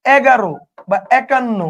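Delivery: slowly spelling out এগারো and একান্ন; slow classroom pronunciation demo. Shown as a demonstration. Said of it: "আপনি যদি বলেন".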